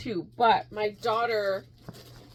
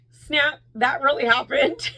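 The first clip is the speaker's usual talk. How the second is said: louder, higher burst of excitement; fangirling; 3 semitones higher, 5 dB louder than usual. Retold or imitated. Fan after meeting her idols, thrilled disbelief. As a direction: let the held-in thrill pop out. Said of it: "after the fact, I'm just like".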